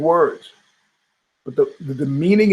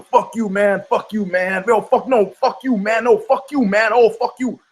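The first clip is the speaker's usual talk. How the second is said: mock escalating argument; 5 semitones higher than usual. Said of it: "You know".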